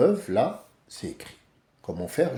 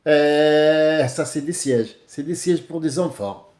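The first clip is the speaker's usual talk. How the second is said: put-on Arabic accent; 3 semitones higher, 4 dB louder, slower than usual. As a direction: start loud with hayya then settle into the accent. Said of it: "Elle a dit". (accent maghrébin imité, plus fort)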